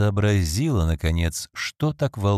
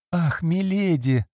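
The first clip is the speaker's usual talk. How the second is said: slow, higher, whiny plea; whimpering; 8 semitones higher, slower than usual. Acted. Phoebe whimpers to her former mistress, slow and high. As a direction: whimper it like a scolded servant. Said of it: "захныкала Фиби Маркс".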